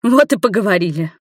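a flash of anger; boiling over angrily. A narrator's reading. Nina boils over before leaving. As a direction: snap it as she storms out. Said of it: "закипела опять Нина".

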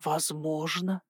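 тихо и медленно протянуть слово; смакуй каждое слово, почти шёпотом; протяжно. A narrator's reading. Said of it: "протянул он". (злодей лениво тянет ответ героине, тихо и медленно)

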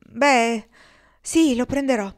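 a sudden loud, bright yes; excited acceptance. Acted. Kendra tells the men she will take the gold, loud and elated. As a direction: burst out with fresh resolve.

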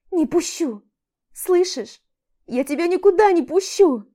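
громкий высокий крик, почти до хрипоты; кричать в истерике, не пуская; отчаянный крик. A narrator's reading. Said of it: "Кричит громко, до хрипоты". (героиня кричит у двери, не пуская Олега)

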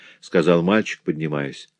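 usual speaking voice

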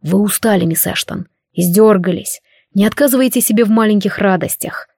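lightly voiced seductive tempter; a hint of a coaxing demon. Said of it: "голосом демона-искусителя предложил чародей".

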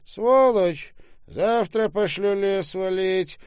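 high, loud threat; angry shout. A narrator's reading. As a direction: shout the abuse at full pitch. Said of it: "крикнул Док". (злой крик с угрозой)

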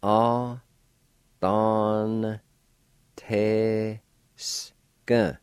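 slow, each syllable of the word said apart: A, don, te, s; careful demo syllables. Shown as a demonstration. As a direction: break the word into separate syllables. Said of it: "pronounce the N sound with the D A like this".

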